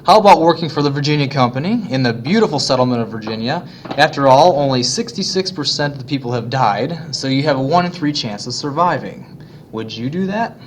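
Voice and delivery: put-on a teacher's terrible British accent as a wealthy Englishman; mock posh British accent; bad British accent. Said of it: "if I'm a wealthy Englishman".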